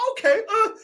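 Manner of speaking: mock meek okay. Mocking the club's meek reply.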